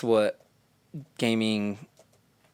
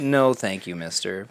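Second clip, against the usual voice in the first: light mock Japanese accent; a hint of a Japanese accent; slower than usual. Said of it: "But in a Japanese accent, obviously".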